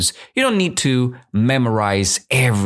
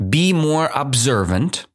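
repeated higher, rising at the end; higher reread; 6 semitones higher than usual. Shown as a demonstration. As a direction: read it again brighter. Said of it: "I will read it again".

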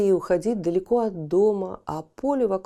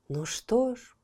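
chirpy bird voice; 4 semitones higher, slower than usual. Acted. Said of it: "прощебетала ласточка".

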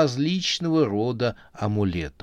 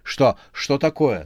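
worried; 5 semitones higher, 5 dB louder than usual. Acted. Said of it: "заволновалась девушка".

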